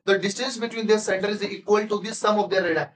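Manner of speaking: very slow, deliberate read-aloud; textbook reading. Acted. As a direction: dictate it word by word to the class. Reads textbook line slowly. (धीमे-धीमे पाठ पढ़ना)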